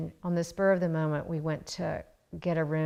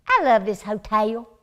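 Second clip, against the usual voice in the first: a loud put-on American Southern accent, pitched up; child's Southern accent; 4 semitones higher, 9 dB louder than usual. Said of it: "she doesn't speak like that normally".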